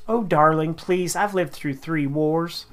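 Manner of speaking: put-on mild British accent on the elderly mother; a light posh British mum; lightly voiced British mother. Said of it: "now that instantly put British instead of Southern".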